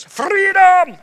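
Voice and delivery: high, loud, drawn-out heroic cry; imitated film-hero yell; William Wallace battle cry. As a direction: cry it out like a rallying warrior. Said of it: "he gets up and he cries".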